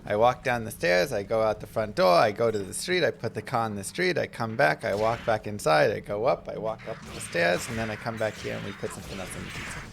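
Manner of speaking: lightly imitated child reciting steps; a hint of lisping toddler; little kid lisp. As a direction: list each step in a sing-song kid way. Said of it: "It's more just like the little kid lisp".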